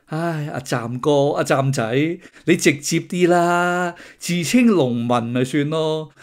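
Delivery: slow, drawn-out mock chiding; teasing, long-drawn appeal; mock exasperated coaxing. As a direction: drag it out like weary advice to a silly friend. Mock advice addressed to the absent man.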